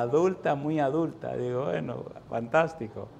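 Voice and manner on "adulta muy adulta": teasing euphemism. Retold or imitated. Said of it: "no quería decir la palabra viejo".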